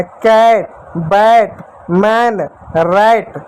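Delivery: कैट, बैट, मैन, रैट each with an open ऐ sound; pronouncing the short a. Shown as a demonstration. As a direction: drill the ऐ sound word by word. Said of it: "कैट में इस ए को ए की मात्रा पढ़े".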